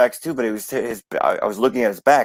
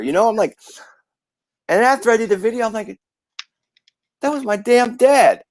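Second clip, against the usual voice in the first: choked up; 9 semitones higher, 3 dB louder than usual. Real, not acted. Grieving son recalls late father.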